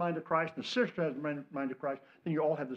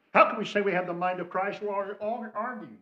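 plain; 6 semitones higher, 3 dB louder than usual. Shown as a demonstration. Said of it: "repeated question".

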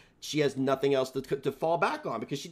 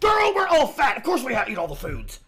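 laughing; 10 semitones higher, 6 dB louder than usual. Real, not acted. Co-host joking about being fat.

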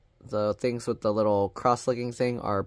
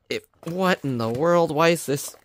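surprised frustration; 5 semitones higher, 5 dB louder than usual. Real, not acted. Lid won't peel open.

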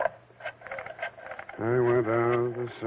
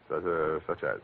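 quiet; 8 semitones lower, 8 dB quieter than usual. Acted. Dry mumbled reply.

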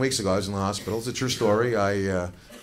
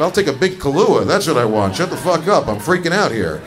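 freaked-out outburst; 2 semitones higher, 4 dB louder than usual. Retold or imitated. Comic snaps at nurse.

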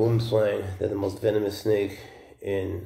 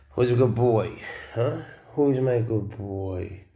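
squeaky praising a dog. Real, not acted. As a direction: coo at a pet like a dog owner. Praising the pet snake.

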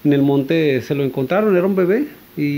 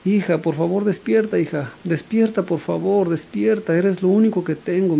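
higher pitched, pleading cry to wake her; desperate pleading; 4 semitones higher than usual. Retold or imitated. Mother begs her dead daughter to wake, in a higher, desperate plea. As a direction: beg the child to wake up, distraught. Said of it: "le grita a su niña desconsolada".

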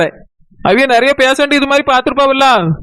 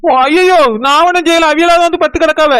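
alarmed denial; 3 semitones higher than usual. Acted. Alarmed denial when accused.

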